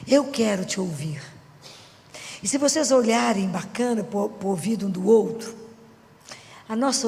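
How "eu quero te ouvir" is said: soft sample prayer. Shown as a demonstration.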